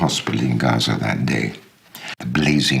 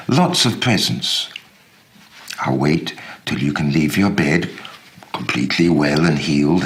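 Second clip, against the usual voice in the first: eager cheerful coaxing; 3 semitones higher than usual. Acted. Uncle to injured niece, eagerly promising presents. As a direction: coax a hurt child with promised gifts. Narrator cheering wounded Nadia with gifts.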